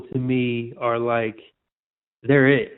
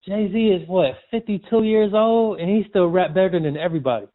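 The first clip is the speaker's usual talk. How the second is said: higher-pitched retold amazement; amazed disbelief; 5 semitones higher than usual. Retelling an excited call to his friend about a rapper, amazed.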